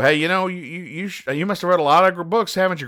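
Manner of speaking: put-on high, eager kid voice; little grandson voice. Host reading the comic, voicing the grandson high and eager. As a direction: pitch up like an excited little boy.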